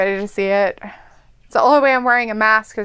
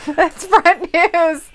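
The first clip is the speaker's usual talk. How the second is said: slow mock emphasis; 7 semitones higher, 4 dB louder, much slower than usual. Echoing slow mock line.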